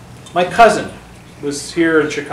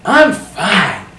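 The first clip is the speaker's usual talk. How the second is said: high, singing intonation; imitated mom's lilting phone voice; cousin's mother; 7 semitones higher, 4 dB louder, much slower than usual. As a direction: swoop up high and loud on the question. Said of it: "That's the way she talked".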